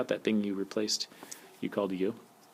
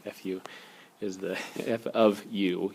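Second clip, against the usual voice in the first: laughing through it; slower than usual. Real, not acted. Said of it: "You have to say that with emphasis".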